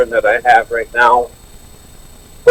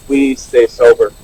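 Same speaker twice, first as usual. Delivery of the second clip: "we" leaned on, slowed down; stress on we. Shown as a demonstration. Sharing at a meeting, stressing "we" in "we stay sober". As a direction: hit the word "we" hard. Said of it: "and I stress the word we".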